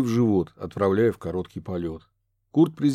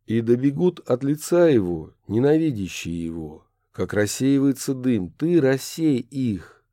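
solemn prayer. A narrator's reading. Kurt reciting the prayer, solemn measured. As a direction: intone the psalm.

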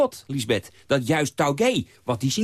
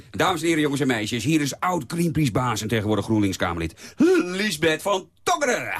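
slowed show-host announcement of the guest; announcer voice. Acted. Introduces the main guest.

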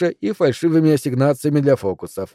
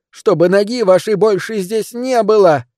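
furious; 7 semitones higher than usual. Acted. Furious woman throws him out.

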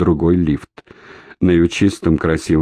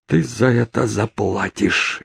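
furious mutter; 4 semitones higher, 4 dB quieter, slower than usual. A narrator's reading. Orlova mutters a threat at no one, furiously. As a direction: spit the threat under her breath. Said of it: "яростно пробормотала Орлова".

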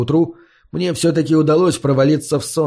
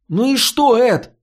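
exasperated; 10 semitones higher than usual. Acted. Фари раздражённо обрывает Эда.

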